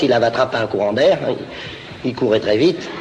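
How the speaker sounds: ordinary talk, nothing marked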